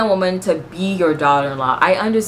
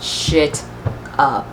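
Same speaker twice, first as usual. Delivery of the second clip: slow, deliberate mock announcement; imitated translator; slower than usual. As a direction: voice a scheming translator, word by word. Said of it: "That translator was like".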